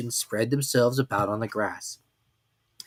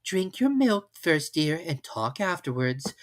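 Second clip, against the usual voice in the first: motherly voice; 6 semitones higher, slower than usual. Acted. Kanga mothering Roo.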